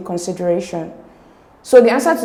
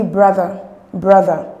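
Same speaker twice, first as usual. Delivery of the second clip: brother with BRO stressed, ending weak; stress on first syllable; 4 dB louder, slower than usual. Shown as a demonstration. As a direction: hit the first syllable of brother, let it fall. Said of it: "The stress is on the first syllable".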